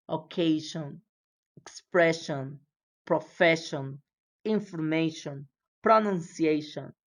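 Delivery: Occasion, expression, profession, information, pronunciation, each with a clear push on the syllable before sion or tion; énfasis en la sílaba antes de tion y sion; stress before sion and tion. Shown as a demonstration. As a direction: drill each word, leaning on the syllable just before the suffix. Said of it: "le doy el énfasis, el stress".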